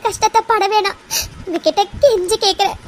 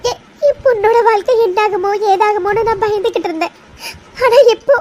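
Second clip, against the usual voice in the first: crying with relief; 2 semitones higher than usual. Acted. Mother thanking the family for her daughter's future, crying. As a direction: sob out the relief.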